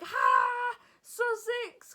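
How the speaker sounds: loud, high, overly friendly exclamation; over the top. Retold or imitated. Telling the receptionist where she's from, an over-the-top shout. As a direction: blurt it out far too loudly and brightly. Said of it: "'cause I'm overly friendly and over".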